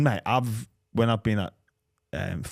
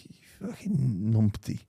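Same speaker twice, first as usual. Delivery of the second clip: slow, drawn-out heckler jeer; lightly voiced heckler calling names; mock heckler insult; slower than usual. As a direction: sneer it like a rival fan, slowly. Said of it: "I'm like".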